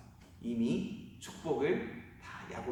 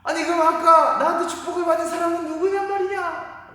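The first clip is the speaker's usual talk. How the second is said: much higher, louder, near-wailing disbelief; shocked son; 11 dB louder than usual. Acted. Esau learning his blessing is gone, rising shocked outcry. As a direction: rise into an anguished outcry. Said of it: "에서가 깜짝 놀란 거예요".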